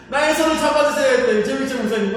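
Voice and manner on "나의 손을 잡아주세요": desperate call. Retold or imitated. Eyes shut, begging the pastor to take his hand. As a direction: cry out for someone to grab your hand. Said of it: "하면서 막 불렀어요".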